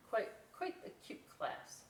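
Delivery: breathy whispered aside; whispering. Real, not acted. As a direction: whisper how cute.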